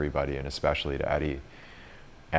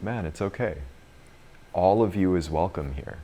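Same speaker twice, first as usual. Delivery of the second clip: gentle reassurance; 3 semitones higher than usual. Retold or imitated. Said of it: "just really gently".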